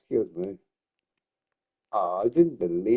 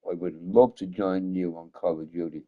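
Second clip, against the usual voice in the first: mock-serious, lower formal address; 5 semitones lower than usual. Streamer accepts a game invite from a friend, in mock-serious voice. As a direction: put on a low, solemn voice for a formal acceptance. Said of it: "that was my very serious voice".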